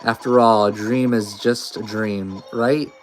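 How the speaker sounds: put-on uneasy, halting girl reading her fears; nervous Noelle. A lightly voiced scared girl, unsure and halting. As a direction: Noelle frets over Chris's strange voice.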